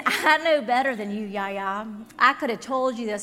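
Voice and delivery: lightly voiced child, loud and self-assured; childlike know-it-all. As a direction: imitate a kid's loud I-told-you-so. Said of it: "It's kind of childlike".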